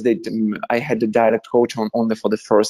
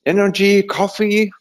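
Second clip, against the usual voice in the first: higher-pitched burst of energy; rally yourself with raised pitch; self pep talk; 6 semitones higher than usual. Retold or imitated. Tired actor forcing himself to tape, pep talk.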